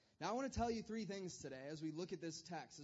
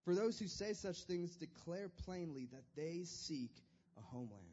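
scripture reading. Acted. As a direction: read the verses solemnly, unhurried. Scripture reading opening sermon.

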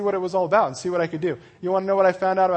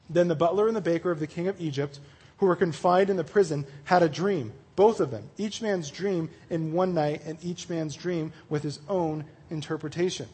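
measured read-aloud of a Bible story; scripture reading; 4 dB quieter than usual. Acted. Preacher reading Genesis to his group, measured narration. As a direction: read the passage out evenly.

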